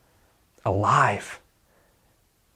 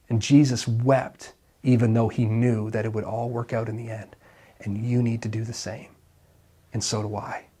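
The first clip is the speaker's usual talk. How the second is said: much softer, gentle close; tender hush; 5 dB quieter than usual. Real, not acted. Preacher comforting the grieving congregation, tender and soft. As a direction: lay it down softly, sincerely.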